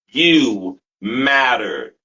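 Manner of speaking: holding back real tears; near tears. Real, not acted. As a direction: voice catching, slow and emotional. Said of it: "you're gonna make me cry on my show".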